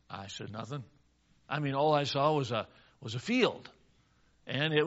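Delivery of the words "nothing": low, very soft reply; sheepish boy's answer. Acted. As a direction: answer dad small and low.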